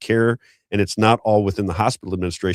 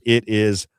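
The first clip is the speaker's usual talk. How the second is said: slow, stretched announcer call of the name; drawn-out announce; 2 semitones higher, much slower than usual. Real, not acted. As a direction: stretch the brand out like a host.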